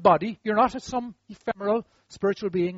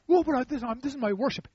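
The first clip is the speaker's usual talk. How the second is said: halting, slightly higher mock objection; flustered protest; 4 semitones higher than usual. Worshipper objecting to leaving the gift, flustered mock protest. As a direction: fumble an excuse.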